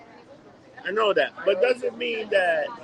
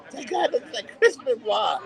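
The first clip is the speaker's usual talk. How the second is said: slow impression of a boss, pitched up; Vince McMahon; 4 semitones higher, slower than usual. Quoting the boss spotting a lookalike, slow put-on voice. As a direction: put on the boss's voice, drawing it out. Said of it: "Vince McMahon goes at one point".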